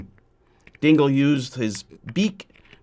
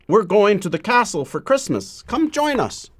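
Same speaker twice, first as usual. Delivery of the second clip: eager wolfhounds; 7 semitones higher than usual. Acted. Wolfhounds inviting the owl.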